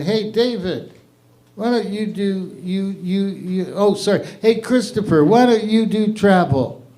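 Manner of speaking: voicing Jesus. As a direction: dole out the saints' jobs offhand. Jesus handing out sainthoods.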